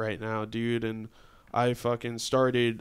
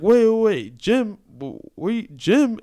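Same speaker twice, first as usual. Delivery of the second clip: high, loud, startled double-take; imitating a stunned, excited reaction; retold astonishment; 9 semitones higher, 8 dB louder, slower than usual. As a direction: act out someone stopped short in disbelief. Woman stunned to hear Jim's name.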